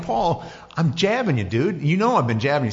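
a hint of Jesus nudging a friend; casual Jesus voice.

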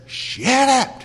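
Jesus rebuking the storm, high loud command; commanding shout. Retold or imitated. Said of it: "He gets up and he says".

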